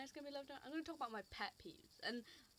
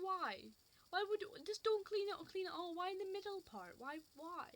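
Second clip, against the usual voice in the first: exasperated rant; 8 semitones higher, 4 dB louder than usual. Real, not acted. Ranting about half-cleaned tables.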